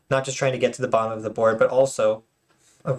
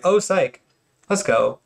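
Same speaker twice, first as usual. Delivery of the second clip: higher-pitched "oh psych" settling down; mildly hyped aside, recalling the surprise; retold excited reaction; 5 semitones higher, slower than usual. Retells reaction to surprise play.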